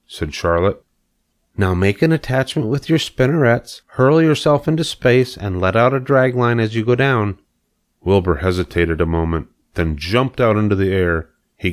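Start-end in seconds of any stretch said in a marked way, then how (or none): 1.6-7.4 higher-pitched, lightly voiced coach; instructing spider. A narrator's reading. Spider tells pig how to launch, instructing. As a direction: give orders as the spider teacher.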